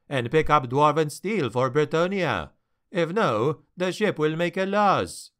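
put-on lightly French-accented sea captain, worried; a hint of a French trader, fretting over his cargo; a hint of a French accent, pleading his case. Narrator voices French captain.

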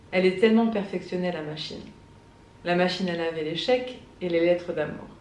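measured poem recital with deliberate pauses; poetry reading. Acted. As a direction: read the poem aloud, lingering between the lines. Reads a poem aloud. (lecture de poème, posée)

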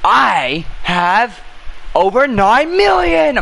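boastful yell. Acted. Boastful shout.

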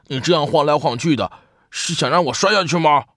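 big brother's exasperated storybook yell; exasperated cry. A narrator's reading. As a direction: cry out, unable to hold it in any longer. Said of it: "哥哥终于忍不住叫了起来".

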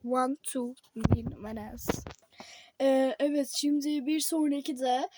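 reading headlines like an anchor; newscaster voice. Pretend. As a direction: pretend TV news read. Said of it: "tam bir spiker gibi konuştum". (haber spikeri gibi)

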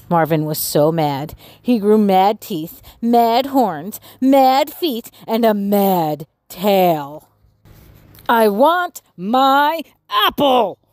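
lively read-aloud storytelling voice; expressive children's story narration. A narrator's reading. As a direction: read it like a bedtime picture book. Reading picture book aloud.

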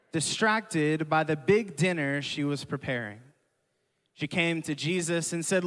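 slow, measured Bible reading; scripture reading. Acted. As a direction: read the passage to the church deliberately. Reads scripture aloud to congregation.

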